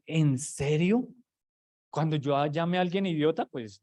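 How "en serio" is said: very slow, drawn-out "¿En serio?"; slow disbelief. Retold or imitated. Preacher pondering the verse aloud, slow and doubtful. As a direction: stretch it out slowly, in mock disbelief. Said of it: "y uno dice".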